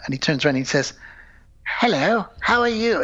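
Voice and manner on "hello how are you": high, lightly voiced old white gent greeting; old white guy voice. The speaker greets Chris in an old white guy's voice. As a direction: greet him like a stiff old white man. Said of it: "speaking like this really old white guy".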